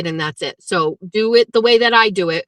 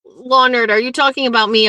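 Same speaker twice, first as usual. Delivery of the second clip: indignant surprise; 3 semitones higher than usual. Real, not acted. Confronts chatter insulting her.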